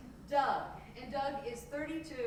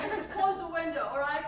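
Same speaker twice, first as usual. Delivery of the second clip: loud, higher, insistent plea; acted exasperation, not yet at full shout; exasperated demand; 6 semitones higher, 9 dB louder than usual. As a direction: demand it with raised voice, still holding back. Acted quarrel over window, first demand.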